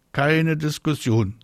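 high, slow, firm call. A narrator's reading. Mama ends Marie's protest, calling out firmly. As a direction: call down and cut off argument. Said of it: "ruft ihre Mama".

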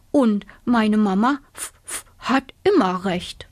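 hedgehog snuffling uff uff; whispery, puffing little hedgehog. Acted. (schnaufender Igel)

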